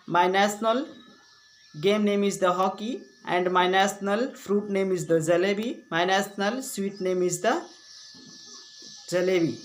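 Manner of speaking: slow, deliberate recitation; model school speech. Shown as a demonstration. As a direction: recite it phrase by phrase as a stage speech.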